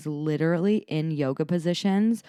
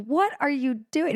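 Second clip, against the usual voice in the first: higher, bemused question; amused surprise; 10 semitones higher, 3 dB louder than usual. Retold or imitated. Mom finding her son posing in the sprinklers, amused. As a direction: ask it half laughing at the strange pose. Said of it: "And I was like".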